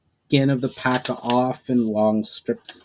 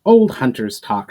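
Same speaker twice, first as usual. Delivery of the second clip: casual; 7 dB louder than usual. Acted. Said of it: "shrugged Amjo casually".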